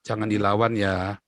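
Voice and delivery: slow, low-pitched fatherly warning; father's counsel. Retold or imitated. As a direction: gently caution a child, unhurried. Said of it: "ayah saya selalu bilang apa".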